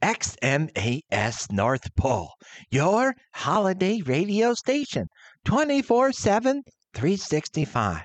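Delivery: radio DJ. Acted. The speaker demonstrating vocal techniques for weekend show, radio announcer. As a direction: announce it with energy and enunciation. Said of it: "Okay, like this?".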